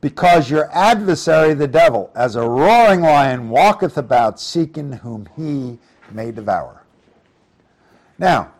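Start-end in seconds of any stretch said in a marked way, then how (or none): 0.0-6.8 raised, solemn reading of the verse; louder solemn scripture voice. Acted. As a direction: read it out like holy writ. Reads scripture aloud in sermon.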